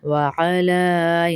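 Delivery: وعلی with a throaty ain; ain not hamza. Shown as a demonstration. Teacher shows students the ain. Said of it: "ہمزہ کی آواز نہیں آئے گی".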